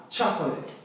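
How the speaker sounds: "chocolate" as CHA-ko-let; stress on first syllable. Shown as a demonstration. Teacher shows the tonic syllable, "chocolate" stressed on CHA. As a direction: punch the CHA at the start of "chocolate". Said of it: "A primeira sílaba é o cha".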